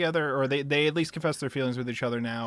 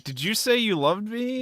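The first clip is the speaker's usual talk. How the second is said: higher-pitched mock disbelief; incredulous question; 8 semitones higher than usual. Tamaki asking if she said she loved him, incredulous. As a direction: act out a stunned double-check.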